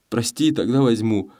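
ordinary delivery

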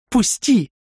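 high loud cry to be released; high furious yell; yelling let go. A narrator's reading. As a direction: shout it while struggling. Рёка struggling, yells.

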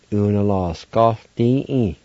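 Unascaldi stretched out slowly; slow careful repeat. Shown as a demonstration. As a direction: draw out each part of Unascaldi. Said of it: "like this".

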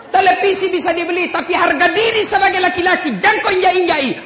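preacher firing up the men; fiery preaching. Acted. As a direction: rouse the men with laughter. Preaching at full force.

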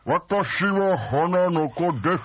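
slow, lightly voiced cute anime girl; a hint of a sweet anime heroine. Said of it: "花の子ルンルンとか声出したもんね".

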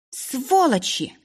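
slow, high hurled insult; hateful cry. A narrator's reading. Isabel cursing her captors, hateful and slow. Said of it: "выкрикнула Изабель".

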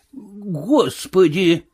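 drawn-out, slow mock moan; groan. Marvel groaning at the invisible voice, slow mock moan. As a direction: moan it out slowly like a beaten man. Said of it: "простонал Марвел".

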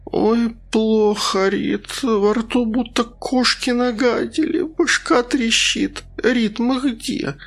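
a hungover patient barely awake; groggy sick woman. Acted. Valentina dazed, moaning to Rita about how sick she feels.

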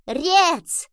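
put-on high, loud baby-kitten squeal; little kitten's gleeful cry; joyful kitten purr. A narrator's reading. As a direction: chirp it happily like a tiny kitten. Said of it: "радостно промурлыкала".

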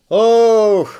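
big high shout of Hoch; a full-throated cheer, falling away at the end. A narrator's reading. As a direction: yell it up to the passing train. Soldiers cheer from passing train.

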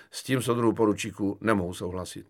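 composed, level refusal; calm but emphatic. Acted. Kefalín refusing lieutenant's deal, calm but firm. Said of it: "pravil klidně, lež důrazně".

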